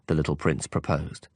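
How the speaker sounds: usual speaking voice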